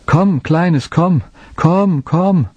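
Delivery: high, ringing calls into the woods; calling out. Acted. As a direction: call the lost lamb from afar. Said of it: "Er rief lange".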